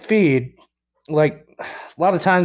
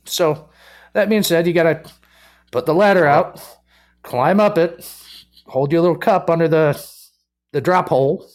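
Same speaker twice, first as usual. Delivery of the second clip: ordinary delivery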